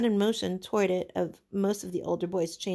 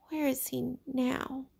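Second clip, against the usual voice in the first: slow fearful question; 6 semitones higher, slower than usual. Acted. Piggy asks, slow, hushed.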